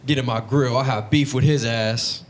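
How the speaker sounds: mock angry dealer, drawing out the end; pissed off, acted. Dealer raging about someone to his buddy, mock pissed off. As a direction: play a mildly worked-up tough guy. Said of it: "he get really pissed off".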